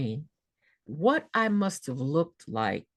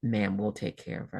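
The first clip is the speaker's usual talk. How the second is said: gentle reassurance; 6 semitones lower, 3 dB quieter than usual. Retold or imitated. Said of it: "her eyes got even more gentle".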